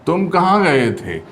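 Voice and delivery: कहाँ lifted, then falling through गए थे; stress on कहाँ. Shown as a demonstration. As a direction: lean on कहाँ in तुम कहाँ गए थे. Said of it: "यहाँ पर बलाघात हो रही है".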